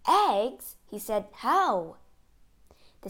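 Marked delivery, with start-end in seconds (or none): 0.1-0.8 loud, higher-pitched disbelieving question; astonished. A narrator's reading. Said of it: "Gulliver was astonished". 1.3-2.0 puzzled, astonished question. A narrator's reading. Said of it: "Gulliver was astonished".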